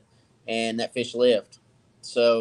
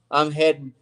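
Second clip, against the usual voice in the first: yawning; 8 semitones higher than usual. Real, not acted. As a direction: talk right through a big yawn. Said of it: "I just made thirty-eight other people yawn".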